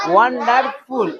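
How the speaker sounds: "ওয়ান্ডারফুল" in three beats; "ওয়ান্ডারফুল" split into its syllables. Shown as a demonstration. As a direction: sound out ওয়ান-ডার-ফুল. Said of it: "syllable করে করে পড়ো".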